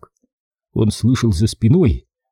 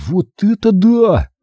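slow, high, louder wonder; amazed; 10 semitones higher, 3 dB louder, slower than usual. A narrator's reading. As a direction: gasp in amazement. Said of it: "вырвалось у него".

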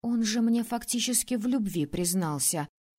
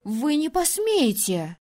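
high, louder, slowing defiant cry; defiant shout; 5 semitones higher, 4 dB louder, slower than usual. Acted. Princess defying the ruler, high and loud. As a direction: hurl the defiance at him.

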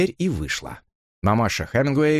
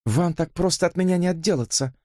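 firmly clipped; 8 semitones higher than usual. A narrator's reading. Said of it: "непреклонно отчеканила Сьюзен".

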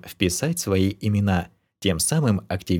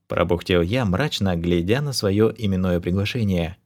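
plain reading voice

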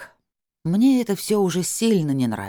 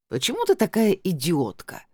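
tipsy indignation; 4 semitones higher than usual. Acted. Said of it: "пьяненько возмутилась Тамарка".

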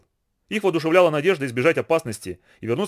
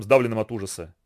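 ordinary delivery, nothing marked

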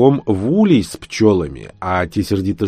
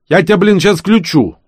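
high, loud furious threat; 11 semitones higher, 6 dB louder than usual. Acted. Genka threatening the narrator over the laptop, furious yell. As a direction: snap a threat at the fool.

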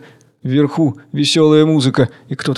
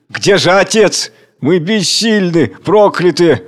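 slow, higher calling; anguished call; 5 semitones higher, 3 dB louder, slower than usual. Acted. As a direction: cry out for the father. Crowd calling for father.

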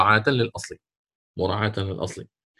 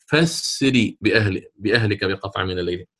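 recitation demo; 6 semitones lower than usual. Shown as a demonstration. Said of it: "فيقرؤون".

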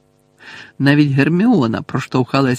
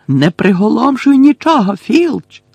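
high, loud, cross order; angry bark; 9 semitones higher, 5 dB louder than usual. A narrator's reading. Umbridge orders Filch not to stun anything, angrily barking. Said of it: "сердито гаркнула Амбридж".

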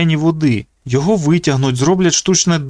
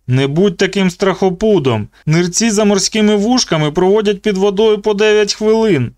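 higher, mocking bully voice; taunting bully; 7 semitones higher than usual. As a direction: sneer at the trapped boy. Zeke the tormentor voiced.

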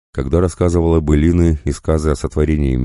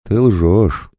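higher, lilting accusation; sing-song; 6 semitones higher, 3 dB louder than usual. A narrator's reading. Эйрун confirms the wolf's lie in a sing-song. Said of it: "нараспев подтвердила Эйрун".

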